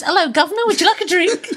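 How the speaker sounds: laughing mock Cockney hostess; lightly sent-up Cockney offer. Critic mocking the flight attendant, mock Cockney. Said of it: "comes on the plane and goes".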